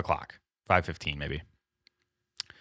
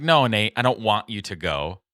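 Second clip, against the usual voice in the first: a hammed-up nagging wife, rattling it off; imitating wife; 2 semitones higher, 4 dB louder than usual. Husband mimicking his wife scolding him about phone calls. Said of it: "That's exactly what my wife would say".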